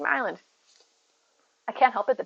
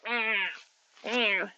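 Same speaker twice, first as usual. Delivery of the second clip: goat-like meow; 7 dB quieter than usual. Retold or imitated. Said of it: "Mia sounds like a goat".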